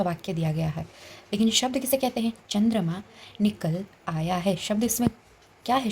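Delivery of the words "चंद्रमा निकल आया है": slow, evenly spaced example reading; slow dictation. Shown as a demonstration. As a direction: read it out slowly for the class. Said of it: "जिसको हम शब्द बोलेंगे". (धीमी गति से पढ़ना)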